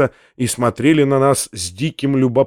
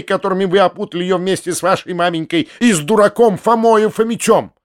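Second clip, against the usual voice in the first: furious tirade; 3 semitones higher than usual. Acted.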